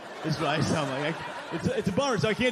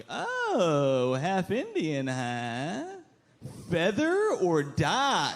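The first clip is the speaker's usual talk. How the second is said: mock asker; much slower than usual. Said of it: "they'll say this fun thing where they're like".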